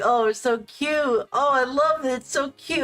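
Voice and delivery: high gushing coo; high mock-sweet fawning; cooing over cute. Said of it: "it was like".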